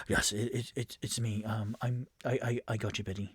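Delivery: soft, halting reassurance; Rainier. Acted. Game master as Rainier comforting fallen Floon, quiet and halting. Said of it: "you hear Rainier go".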